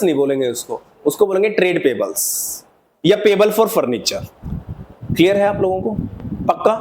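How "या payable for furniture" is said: very slow, word by word for note-taking; teacher dictating the term slowly to students; slow dictation. Shown as a demonstration. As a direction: spell it out slowly so they can write. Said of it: "पूरा question note down कर लो".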